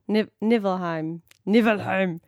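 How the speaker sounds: Nivelheim in a mock Scandinavian accent. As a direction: Nivelheim said with a playful Scandinavian lilt. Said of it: "Just like a odd Scandinavian accent".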